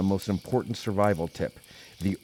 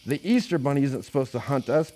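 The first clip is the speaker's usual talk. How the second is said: higher, fast panicked cry; shriek; 6 semitones higher, faster than usual. Acted. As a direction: gil het er haastig uit. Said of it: "Petey shrieked".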